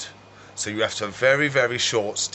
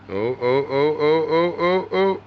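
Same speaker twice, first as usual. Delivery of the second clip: rising excited oh's; 4 semitones higher, slower than usual. Real, not acted. Watching the gecko struggle.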